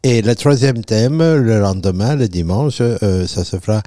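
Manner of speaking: put-on French with a playful southern Italian accent; Italian expert announcing his programme in accented French. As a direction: lay on a Sicilian-Italian accent, slipping in Italian words. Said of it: "la touche, euh, sans accent".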